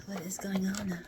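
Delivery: breathy unvoiced whisper; sultry whisper. Real, not acted. Asking Gaia in a seductive whisper. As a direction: whisper it like a secret. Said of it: "why am I talking like this".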